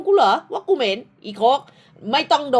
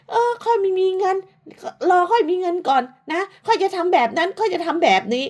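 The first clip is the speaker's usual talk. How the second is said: mock quote; 6 semitones higher than usual. Mocking her rival's excuses.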